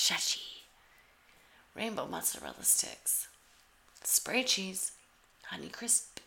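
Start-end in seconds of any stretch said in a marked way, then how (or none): 0.1-0.6 Shachi said flat and settled, sh sound at the start; settled name. Shown as a demonstration. Host confirming the pronunciation Shachi, settled. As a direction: land on Shachi with a falling close. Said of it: "It's a S H".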